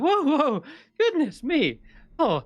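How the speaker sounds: high-pitched, swooping fluster of a startled host; loud, high cries of goodness-me astonishment; flustered, startled exclamation. Acted. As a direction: burst out in high, theatrical alarm. Game master plays startled Glint.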